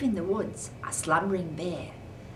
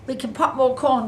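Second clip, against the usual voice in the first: very high squeaky mouse voice; 11 semitones higher, 7 dB louder than usual. Acted. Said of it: "Mouse squeaks".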